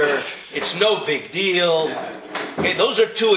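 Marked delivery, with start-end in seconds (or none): 0.0-2.0 indifferent. Retold or imitated. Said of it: "Kimei sheino margish".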